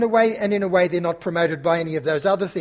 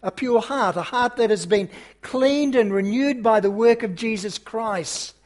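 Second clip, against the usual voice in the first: rising, emphatic pulpit delivery with pauses; earnest preacher building to key words; sermon preaching. Acted. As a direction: preach it out to the congregation.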